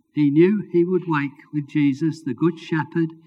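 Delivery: usual speaking voice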